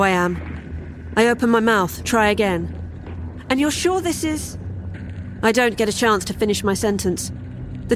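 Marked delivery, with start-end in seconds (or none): 3.5-4.6 doubtful question. Acted. Wife questions the elf.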